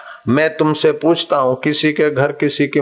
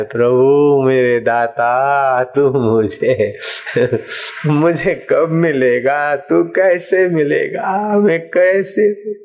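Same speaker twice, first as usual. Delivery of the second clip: slow pleading prayer, rising at the end; longing prayer; slower than usual. Acted. Devotee begging God to appear, slow and pleading. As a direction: ache for God as you ask.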